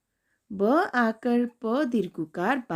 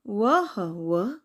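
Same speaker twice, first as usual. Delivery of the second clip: slow, drawn-out sounding; slow spelling; much slower than usual. Shown as a demonstration. Teacher reading letters one by one to kids. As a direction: sound it out slowly. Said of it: "एक-एक करके पढ़ते हैं".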